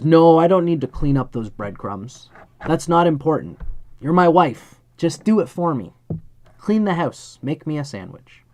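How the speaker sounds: a domineering husband refusing to clean up, barking demands; brutish husband. Retold or imitated. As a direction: bark orders at the wife. Brutish husband refuses wife's request.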